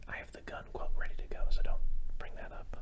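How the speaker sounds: hushed aside, barely voiced; a low secret whisper to the co-host. Real, not acted. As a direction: whisper it so nobody hears.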